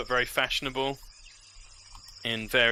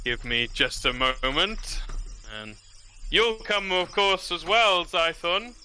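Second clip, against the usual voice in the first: lord voice; 3 semitones higher than usual. Acted.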